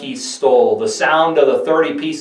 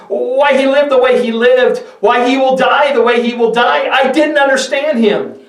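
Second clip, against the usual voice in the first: much higher, strained pleading cry; anguished confession; 10 semitones higher, 4 dB louder than usual. Acted. Judas confessing his betrayal to the priests, anguished high cry. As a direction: break under the weight of guilt.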